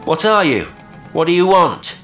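calling out. A narrator's reading. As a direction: shout the questions over the rail. Calling to unseen boat at sea.

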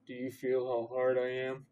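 lightly growled character line; a touch of put-on growl. A narrator's reading. Narrator as Harry to Hermione, mild growl. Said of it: "he growled".

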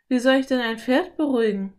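anxious question to oneself; worried. A narrator's reading. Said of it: "dachte Philipp besorgt".

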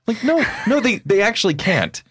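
high, bright-pitched recruiter impression. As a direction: sell it like an eager recruiter. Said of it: "I love your recruiter voice".

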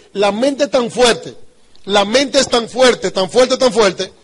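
drawn-out, slow and insistent; slow emphatic. Acted. Speaker to audience on the mind's power, slow and insistent. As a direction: lean on each word slowly.

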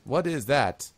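put-on taken-aback elderly gnome priest; startled old gnome. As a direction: falter in alarm at what you see. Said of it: "and he's like".

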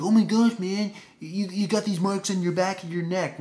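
high-pitched mock alarm; retold shock. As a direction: imitate a startled classmate. Retold student's shocked reaction to marks.

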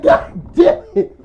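loud, high, drawn-out mock exclamation; shocked outburst. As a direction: blurt it in exaggerated disbelief. Retold shock at the photo.

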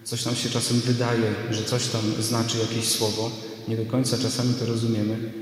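sermon recorded with church echo; preaching in a reverberant church; church reverb. Real, not acted. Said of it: "nagrał się też pogłos z kościoła". (pogłos kościelny)

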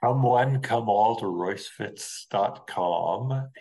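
lightly hammed-up barker's call, slowing down; mock barker. Plugging the website to listeners, as a mock barker. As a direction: call out like a playful fairground crier.

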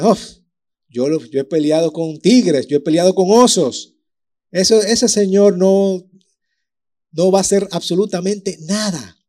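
put-on confident young David. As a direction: brag like you've beaten lions and bears. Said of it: "David boasts of tigers and bears".

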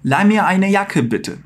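slow polite German request; slow polite model. Shown as a demonstration. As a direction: model the polite ask slowly. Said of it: "colocar um bitte no final".

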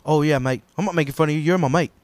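earnest British mate, retold; lightly voiced British impression; British accent. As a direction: imitate a British pal reassuring his friend. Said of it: "The British guy".

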